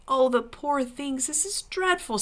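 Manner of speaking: pitying. A narrator's reading. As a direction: lament for them in a lifted voice. Lucy pities the dwarves.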